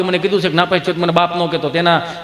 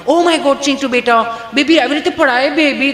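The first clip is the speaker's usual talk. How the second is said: higher doting mum voice; higher fussing mother; fussy modern mother; 6 semitones higher than usual. Retold or imitated. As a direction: fuss over the baby like a posh mum. Fussy mother comforting child.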